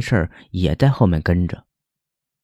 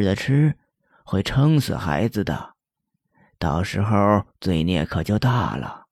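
softer, sighing, gently coaxing the ghost; soothing old woman; 4 dB quieter than usual. Acted. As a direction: talk the spirit down softly, like a kind granny. (神婆轻声叹气劝鬼)

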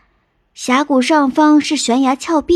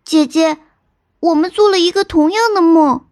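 higher-pitched astonished little sister; amazed; 5 semitones higher than usual. Acted. Little sister learning of the shared dream, amazed. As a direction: tell it in wonder. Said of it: "惊奇地说".

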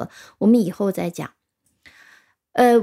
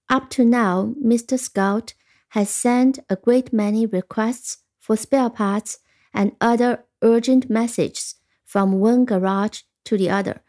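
1 careful reading aloud. Shown as a demonstration. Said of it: "听仔细了".

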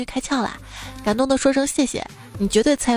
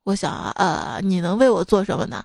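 lower, unimpressed supervisor asking back; teacher voice; 3 semitones lower than usual. Acted. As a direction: play the deadpan professor. Supervisor answering the student. (导师低沉地反问)

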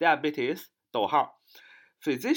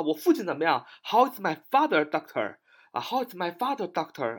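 high, loud question about a parent; hospital visitor asking; 5 semitones higher, 4 dB louder than usual. Acted. Son or daughter asking the doctor about father, high-pitched query. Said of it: "这是我们常常去医院问的啊".

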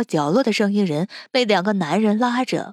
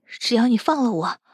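higher-pitched, urgent persuasion; pleading negotiation; 5 semitones higher than usual. Acted. Captive bargains with the captor for freedom, pleading.

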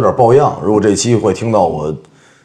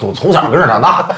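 put-on Cantonese accent in Mandarin; 5 semitones higher, faster than usual. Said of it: "这是说港普还是说".

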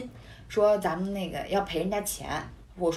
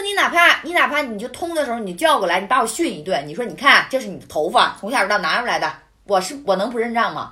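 retold indignant argument; 4 dB louder than usual. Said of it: "我说".

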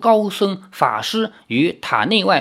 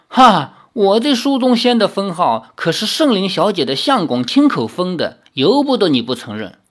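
smug laugh; 4 semitones higher than usual. Acted. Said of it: "苏宗仙笑道".

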